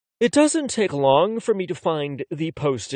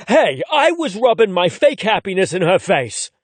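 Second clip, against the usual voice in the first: indignant; 3 semitones higher, 4 dB louder than usual. Acted. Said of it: "with a level of indignation".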